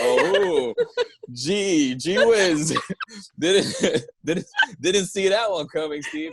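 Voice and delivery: high-pitched mock amazement, laughing through it; mock surprise. Imagining fans' reaction to an obvious costume, mock surprise. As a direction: play it fake-astonished, voice up high.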